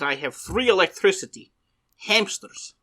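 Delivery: mock Eastern European accent; deadpan fake Russian accent. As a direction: pitch the scam in a put-on Russian voice. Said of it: "when you do that accent".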